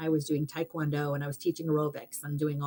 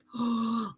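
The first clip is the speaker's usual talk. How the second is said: amazed gasp; 6 semitones higher than usual. Retold or imitated. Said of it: "like, blown away".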